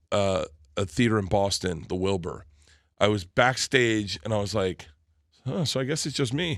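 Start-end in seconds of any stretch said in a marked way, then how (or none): 5.5-6.6 deflated. Retold or imitated. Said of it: "it's like a really deflating moment".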